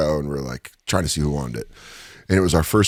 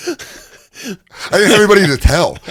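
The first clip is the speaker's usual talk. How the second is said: 1 giddy; 11 semitones higher, 4 dB louder than usual. Real, not acted. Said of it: "excited after praise".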